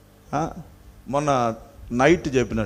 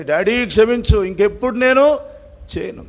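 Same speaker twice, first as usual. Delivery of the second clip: pleading apology; 5 semitones higher than usual. Retold or imitated. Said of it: "పశ్చాత్తాపంతో".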